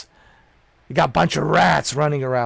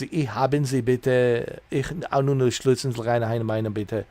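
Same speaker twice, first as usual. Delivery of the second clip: mock German. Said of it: "Starting to sound like a German".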